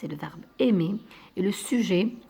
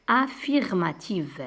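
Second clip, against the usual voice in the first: mot détaché lentement. Shown as a demonstration. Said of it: "d'une phrase".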